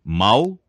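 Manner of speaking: Mal said slowly, l where the r belongs; faulty l for r. Shown as a demonstration. Teacher demonstrates rhotacism: slow Mal. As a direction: drag out Mal as the wrong form. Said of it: "pronúncia defeituosa do R".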